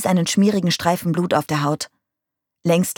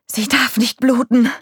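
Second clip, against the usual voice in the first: high, slow, strained desperation; gasped out; 7 semitones higher, 4 dB louder than usual. A narrator's reading. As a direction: gasp it out, dragging the words high. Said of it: "keuchte Nick". (verzweifelt gekeucht)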